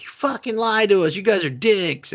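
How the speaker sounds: high-pitched mock outrage; put-on high angry voice; mock angry accusation. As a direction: imitate someone indignantly accusing. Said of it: "they're just like".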